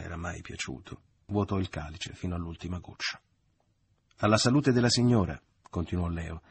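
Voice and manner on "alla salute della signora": loud, higher raised-glass toast; hearty toast. A narrator's reading. Leo toasting the mother, loud and higher. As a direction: toast the lady of the house.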